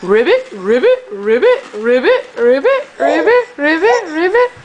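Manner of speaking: frog croak. Pretend. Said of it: "how about a little froggy?".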